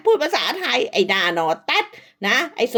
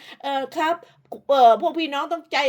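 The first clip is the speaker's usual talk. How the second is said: mock polite voice; 2 semitones higher than usual. Mimicking husband's polite clip talk.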